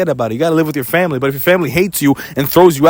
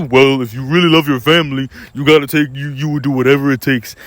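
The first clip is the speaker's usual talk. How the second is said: mock lecturing voice; 5 semitones lower than usual. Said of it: "then they tell you".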